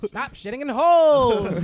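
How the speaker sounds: booming slow announcer yell; loud mock ad shout. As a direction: shout the slogan slowly. Joining the mock water ad.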